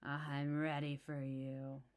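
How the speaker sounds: slow, lightly gravelly crone; a hint of menace; gravelly old woman. Witch greets the pranksters, slow and lightly gravelly. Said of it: "she said in a gravelly voice".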